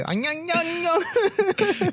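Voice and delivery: high, sing-song mock Asian accent; mocking an Asian accent in a high nasal sing-song. Friend mocks Vietnamese speakers with a high mock Asian accent. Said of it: "every time you do, like, um, the accent".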